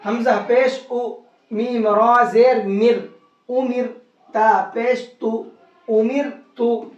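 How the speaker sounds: slow spelling to a light "उमिर तु"; thin Ra. Shown as a demonstration. Teacher practising with students, thin Ra recitation. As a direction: draw out each syllable, R of "उमिर" thin. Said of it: "इस रा को बारीक करके पढ़ेंगे".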